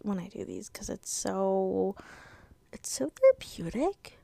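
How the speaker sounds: breathless, half-whispered words; running short of air while talking to the listeners, breathless; out of breath. Real, not acted. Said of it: "I'm, like, out of breath".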